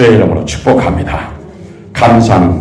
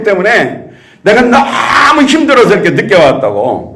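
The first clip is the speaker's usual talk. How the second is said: complaining protest; 9 semitones higher than usual. Retold or imitated. Late disciple complaining to Jesus, high whiny grievance. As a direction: whine that it's unfair. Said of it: "주님 앞에 어떻게 따졌어요".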